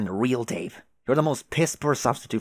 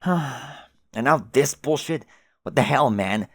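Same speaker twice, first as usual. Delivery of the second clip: exasperated; 3 semitones higher, 4 dB louder, slower than usual. Acted. Exasperated sigh then rant.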